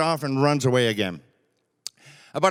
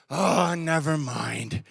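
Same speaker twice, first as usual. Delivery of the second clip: slow, softer, let-down sigh of a reply; deflated cub; 4 dB quieter, much slower than usual. Retold or imitated. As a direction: give up quietly, slowly. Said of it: "the polar bear cub goes".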